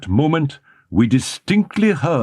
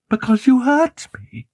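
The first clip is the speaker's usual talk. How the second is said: much higher, tense frightened woman; higher nervous young woman deflecting; anxious Christine; 10 semitones higher than usual. A narrator's reading. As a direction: sound scared, cover the truth.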